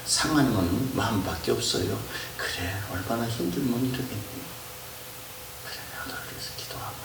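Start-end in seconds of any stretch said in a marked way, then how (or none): 2.4-7.0 soft, hushed blessing fading to a whisper; gentle forgiving. Shown as a demonstration. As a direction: answer tenderly, almost whispering. Gentle reply modeled. (다정하게 속삭이듯)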